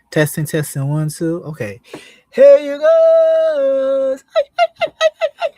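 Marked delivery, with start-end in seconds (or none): 2.3-5.5 drawn-out, high-pitched holler, then quick high his; very loud and high intro call; loud greeting. Real, not acted. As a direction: sing out a big, high, stretched hello to the audience. Sing-out greeting opening the stream.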